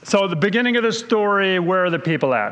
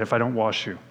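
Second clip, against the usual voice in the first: corrected quote; 8 semitones lower, 6 dB quieter, faster than usual. Retold or imitated. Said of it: "He said".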